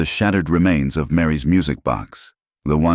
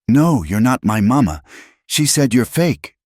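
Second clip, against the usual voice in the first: put-on upset child; 8 semitones higher, 5 dB louder than usual. A narrator's reading. Child rejecting Abigail, upset.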